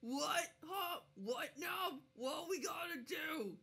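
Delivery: high, loud, dim ogress call; she-ogre answering. Acted. Female ogre answering her partner's call for help. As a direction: answer groggily like a clumsy ogress. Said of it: "And she goes".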